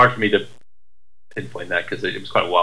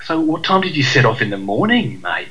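mock Australian accent; 4 semitones higher than usual. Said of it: "he's as English as I am".

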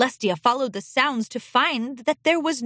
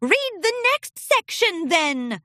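higher, curt retort; snapping back; 8 semitones higher than usual. Acted. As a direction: cut him off sharply. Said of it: "Diamond Wave shot back".

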